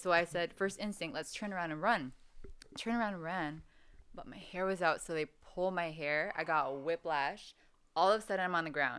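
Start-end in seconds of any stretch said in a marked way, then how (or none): none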